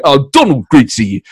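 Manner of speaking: lightly voiced Boris greeting; a hint of bumbling Boris; Boris impression. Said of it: "and then we'll flip it".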